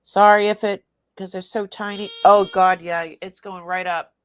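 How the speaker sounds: talking over a loud buzzing tester. Real, not acted. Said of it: "Sorry about the buzzing".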